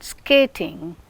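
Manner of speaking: "skating" with no puff after the k; unaspirated k. Shown as a demonstration. Teacher showing students the k in skating, unaspirated. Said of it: "k is not aspirated".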